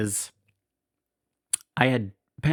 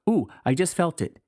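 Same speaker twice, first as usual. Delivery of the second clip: surprised exclaim; 7 semitones higher than usual. Retold or imitated. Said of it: "Then she exclaims".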